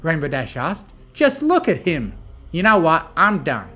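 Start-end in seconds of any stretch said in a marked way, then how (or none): 1.1-2.1 high-pitched, loud insistence; insist, voice shooting up; incredulous. Acted. Rainbow pointing out the demon to friends, incredulous. 2.5-3.7 loud, exasperated announcement; fed-up declaration. A narrator's reading. Applejack quitting the whole affair, fed up. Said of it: "Applejack declared".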